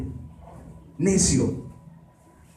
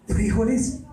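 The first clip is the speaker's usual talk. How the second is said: high rising, startled; Esaú surprised at the beans; surprised question; 7 semitones higher, slower than usual. Acted. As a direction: pitch it up as if amazed. Esaú asks about the stew.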